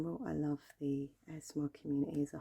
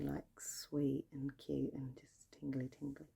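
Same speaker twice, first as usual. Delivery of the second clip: slow whisper; slower than usual. Acted. ASMR whispered trigger words.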